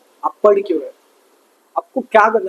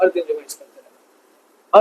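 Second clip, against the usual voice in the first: lower, softer and slow, pressing "हर दिन" home; soft slow repeat; 6 semitones lower, 5 dB quieter, slower than usual. Shown as a demonstration. Teacher softly repeats daily-revision advice to students, slow and quiet. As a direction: repeat it quietly and slowly so it sinks in. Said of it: "उसको हर दिन revise करते रहना".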